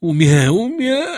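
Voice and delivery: loud, rising strangled cry; the words break off into a shriek; choked-off scream. A narrator's reading. Priest chokes mid-word as the seizure grips him.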